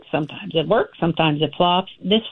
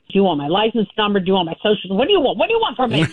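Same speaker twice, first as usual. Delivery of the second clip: mock barking; much faster than usual. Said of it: "And he was barking".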